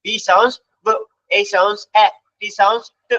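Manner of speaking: each letter name, then its short sound: "B sounds B" as "bee sounds buh"; name "A", then sound it "aa", likewise "T" as "tuh"; phonics letter sounds. Shown as a demonstration. Teacher presenting the phonics rule, "B" sounded as short "buh". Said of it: "শেখাচ্ছি ফনিক্স এর নিয়ম".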